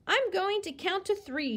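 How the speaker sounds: high warning call; shouted threat. A narrator's reading. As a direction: threaten them from across the yard. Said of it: "Sheila shouted".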